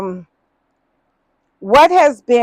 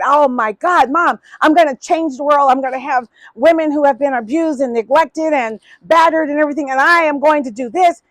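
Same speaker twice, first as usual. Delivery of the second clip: put-on bright, rushed young dreamer, a bit higher; eager retelling; 5 semitones higher, 4 dB louder than usual. To her mom at the bank, gushing excitedly about her dream. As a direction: spill the dream out fast, all fired up. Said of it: "I was just on fire with it".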